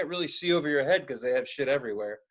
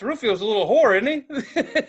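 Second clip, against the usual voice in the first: louder, laughing through the line; laughing joke; 7 semitones higher, 6 dB louder than usual. Retold or imitated. Teasing the shop owner about her cat, laughing. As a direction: crack the joke while giggling.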